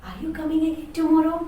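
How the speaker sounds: honeyed invitation; sweetly. Acted. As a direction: suddenly turn sweet and hopeful.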